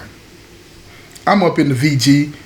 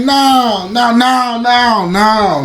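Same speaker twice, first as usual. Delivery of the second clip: flustered denial; 5 semitones higher, much slower than usual. Retold or imitated. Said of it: "guilt and shame washing all over me".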